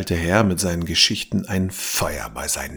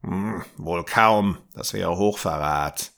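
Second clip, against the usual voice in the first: growled. Acted. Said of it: "knurrte der alte Mann".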